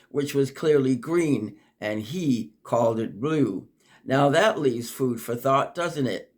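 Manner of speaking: reflective, lilting poem recital; poem reading. Acted. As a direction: muse aloud in verse. Poem continues.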